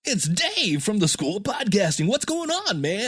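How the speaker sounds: high, swooping goofy put-on voice; cartoonishly different from your real voice; different phone persona. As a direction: greet the caller in an exaggerated high-pitched voice. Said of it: "all of a sudden I sound like this".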